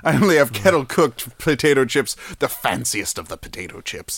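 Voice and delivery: lightly mock rich snob; rich person voice. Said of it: "back to my poor person voice".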